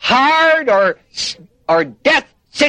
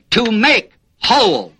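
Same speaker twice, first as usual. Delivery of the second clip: deliberate teaching emphasis on "make"; stress on make. Shown as a demonstration. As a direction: lean on "make", let "whole" drop. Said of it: "The emphasis is on the word make".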